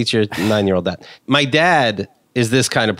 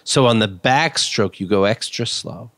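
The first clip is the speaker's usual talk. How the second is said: pretentious dad; 4 semitones lower than usual. Retold or imitated. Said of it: "real pretentious".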